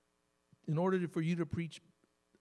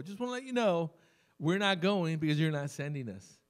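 cocky; 4 dB louder than usual. Retold or imitated. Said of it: "cockiness in my, in my approach".

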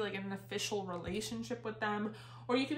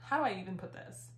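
breathless, pregnant and winded; out of breath. Real, not acted. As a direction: talk while out of breath. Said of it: "kind of out of breath".

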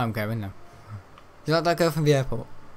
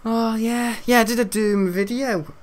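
lightly raised, silly put-on voice; silly high voice; 8 semitones higher than usual. Streamer telling viewers about a video, in a silly high voice. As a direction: chirp it out playfully.

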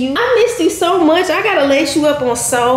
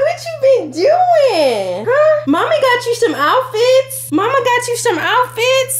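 high, excited cooing questions; 7 semitones higher than usual. Real, not acted. Mother telling baby about new outfits, high playful coo.

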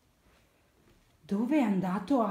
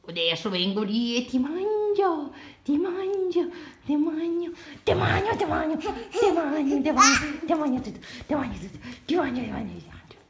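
scolding italian mother; 6 semitones higher than usual. Pretend. Playful threat to toddler.

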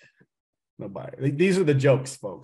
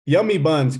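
playful mnemonic; 5 dB louder than usual. Shown as a demonstration. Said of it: "Just remember, yummy buns".

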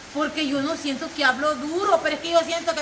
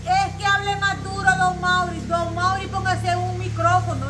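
high, slow pleading for volume; imitating listeners complaining; 4 semitones higher, slower than usual. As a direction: beg don Mauri to speak up. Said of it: "A vos te decían así".

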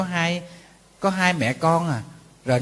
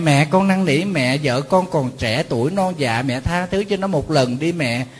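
slow, coaxing plea to mother; pleading son. Pretend. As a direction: beg mother gently and slowly to forgive. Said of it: "con cũng phải chạy tới mẹ".

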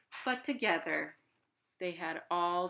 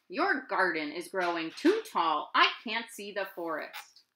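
complained; 5 dB louder than usual. Acted. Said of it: "Owl complained".

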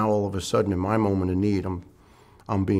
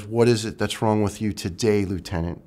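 imitating a doctor's arrogant tone; a hint of a haughty doctor talking down. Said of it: "with a very, uh, arrogant inflection".

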